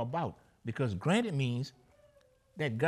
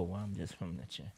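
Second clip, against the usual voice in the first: mock timid answer; 8 semitones lower, 8 dB quieter than usual. Mocking a timid Christian hiding faith.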